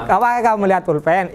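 quick question rising on "pulpen"; "pulpen" turned up as a question; question intonation. Shown as a demonstration. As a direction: ask "Apakah kamu melihat pulpen" briskly with a lift. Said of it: "Ini kalau nadanya pertanyaan".

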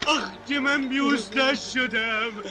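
crying out at the bad news; anguished outcry. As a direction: wail out the shock. Reacting to the death news.

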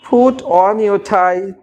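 tie your tie stretched out very slowly; slow model phrase. Shown as a demonstration. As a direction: draw out each word for learners. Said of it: "আপনি যদি বলেন".

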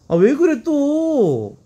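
high, slow whiny protest; exasperated. Real, not acted. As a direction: whine it out in exasperation. (답답해서 높게 늘어지듯)

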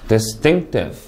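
"Distinctive" as a model, dis-TINC-tive; careful word stress. Shown as a demonstration. Teacher shows students "Distinctive", careful word stress. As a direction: stress the middle syllable of "Distinctive". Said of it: "이렇게 강세를 넣어서 읽을 수".

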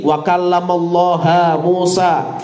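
kallamallaha said slowly with an open a on Allaha; changed vowel. Shown as a demonstration. Teacher swapping the vowel to change the meaning, slow and deliberate. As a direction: draw out wa kallamallaha Musa, stressing the ha of Allaha. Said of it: "Tapi kalau saya ganti".

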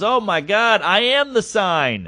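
high, drawn-out imitated awe; flipping out. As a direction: play a starstruck fan, stretching the words. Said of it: "He's flipping out".

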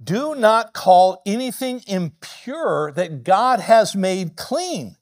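very slow, measured command; solemn, drawn-out divine voice; voice of God. Retold or imitated. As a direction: lay each word down slowly. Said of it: "The voice spoke to him a second time".

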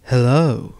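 slick, greasy greeting; oily voice. Acted. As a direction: purr it like an oily blackmailer. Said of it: "said the diesel in an oily voice".

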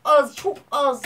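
high, anguished whine; whining lament. Real, not acted. Gamer whining to viewers about missing by a little. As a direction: moan over how close it was.

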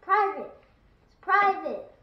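loud, high bursts; territorial shouting. Real, not acted. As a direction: shout each word at the intruder. Defending house from intruder.

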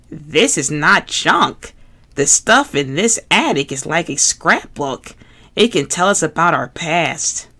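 earnest, patient Bert, lightly voiced; fussy puppet explaining seriously.

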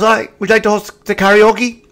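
high-pitched put-on woman's voice; imitating female producer. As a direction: mimic the producer's offer well above your own pitch. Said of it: "she goes".

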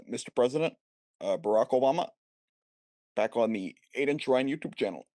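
light mock Obama voice, halting presidential intro; Obama impression. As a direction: play a president greeting his viewers. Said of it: "me impersonating Obama".

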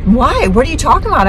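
high-pitched imitation of Mom; puzzled mom. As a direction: question it as a baffled Mom. Mom's puzzled reply, retold.

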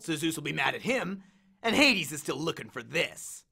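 lightly voiced cocky war god; swaggering Ares, amused. Ares grins at Percy's accusation, lightly cocky. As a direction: toy with the hero, a touch of swagger. Ares explains his scheme.

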